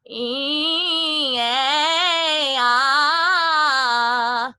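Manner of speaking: "E, eh, ah" high, steady and loud; smoothly blended vowel slide. Shown as a demonstration. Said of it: "learn to blend it".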